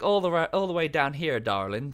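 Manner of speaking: a hint of a Southern belle drawing you in; Southern belle accent. Streamer badly imitating a game's seductress spy, mock Southern belle accent. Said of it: "very sort of Southern belle".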